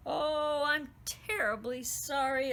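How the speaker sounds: put-on flustered girl apologising to the queen; gasping. A narrator's reading. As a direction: catch your breath as you apologise. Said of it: "Elizabeth gasped".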